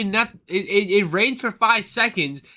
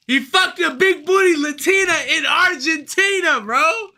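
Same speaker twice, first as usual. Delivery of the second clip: emphatic repeat; 5 semitones higher than usual. Real, not acted. Repeating the Hitler joke to friends, emphatic. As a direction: hammer the punchline home.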